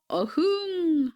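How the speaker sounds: high, drawn-out storybook roar; tiger roar. A narrator's reading. Tiger not feared by the child, high long roar. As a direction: stretch out an indignant roar.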